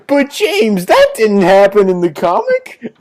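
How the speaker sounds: high, loud objection breaking into laughter; laughing mock protest. Co-host objects to the mistaken continuity, laughing mock-indignant.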